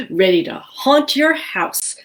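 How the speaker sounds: high, slow proud announcement; proud ghost voice. Acted. Gilbert tells the royals he's ready to haunt, high proud voice. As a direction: announce it with pride.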